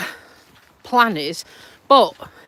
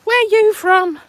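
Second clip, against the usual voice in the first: imitating a curious asker; 10 semitones higher, 5 dB louder, slower than usual. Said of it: "everybody always says to me".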